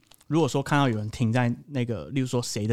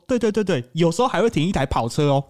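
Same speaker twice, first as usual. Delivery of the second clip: mock bragging; 3 semitones higher than usual. Imitating neighbour bragging.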